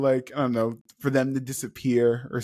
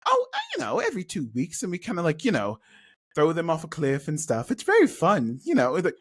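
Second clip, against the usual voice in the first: breezy hippie voice; 3 semitones higher than usual. Acted. Hippie Chloe continues.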